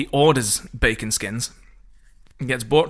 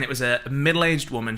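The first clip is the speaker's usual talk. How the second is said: usual speaking voice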